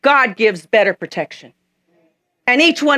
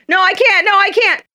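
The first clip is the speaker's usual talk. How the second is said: higher, louder protesting whine; high, louder childish no, I can't; high whiny refusal; 9 semitones higher, 3 dB louder than usual. Acted. Eaglet refuses to fly.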